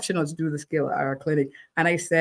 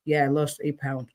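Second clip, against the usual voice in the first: no excitement; 3 semitones lower, 3 dB quieter than usual. Retold or imitated. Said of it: "there's no sense of, you know, excitement".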